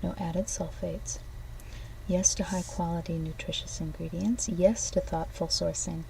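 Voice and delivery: upbeat product pitch; ad read. Acted. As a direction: read it like a commercial. Reads an ad script.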